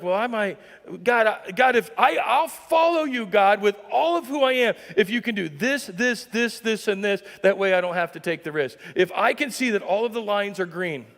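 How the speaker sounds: mock-earnest high pleading prayer; hammed-up bargaining with God. Imitating a believer bargaining with God, high and pleading.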